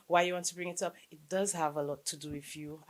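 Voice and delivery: ordinary talk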